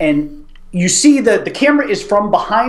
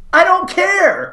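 slow, deadpan drawl; flat movie quote; 14 semitones higher, much slower than usual. Retold or imitated. Quoting Tommy Lee Jones to his friend, slow deadpan. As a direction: hang on every word, slow and flat. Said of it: "to which Tommy Lee Jones says".

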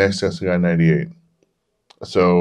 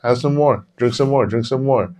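high teasing go-ahead; playful higher mock goading; mock encouragement; 6 semitones higher than usual. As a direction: egg him on sarcastically. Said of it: "They're like".

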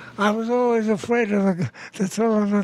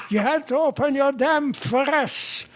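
put-on higher-pitched exasperation, Jewish accent; exasperated husband; 5 semitones higher than usual. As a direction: finally let out the pent-up reproach. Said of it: "the husband can contain himself no longer".

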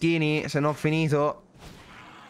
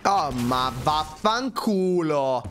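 explosive italian cursing; 2 semitones higher, much slower than usual. Real, not acted. Frustrated card game loss.

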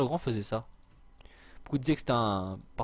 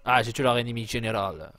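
mock English accent, louder than usual; 6 dB louder than usual. Gamer announcing a kill to viewers, mock English accent. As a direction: put on a playful English accent. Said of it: "dit-il de son bel accent anglais".

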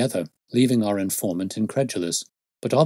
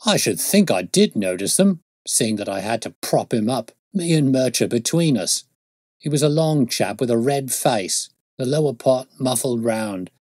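emphatic, lightly voiced rustic policeman; indignant constable; 3 semitones higher, 4 dB louder than usual. Constable defends himself to detective, mildly indignant and emphatic. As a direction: answer back with mild indignation.

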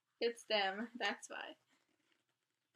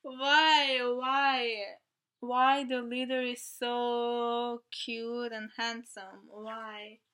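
mock outrage; 4 dB louder, slower than usual. Real, not acted. Fangirling over leader.

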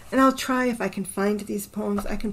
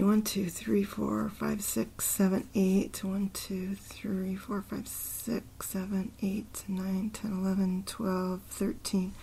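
softer half-whispered syllable count; counting under breath; 6 dB quieter, slower than usual. Real, not acted. Counting a poem's syllables to himself, half-whispered. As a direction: mutter the count to yourself.

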